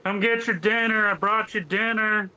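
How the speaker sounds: high, loud coaxing call; calling a dog. Acted. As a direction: coax it out like a pet. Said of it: "try and sound like a goat".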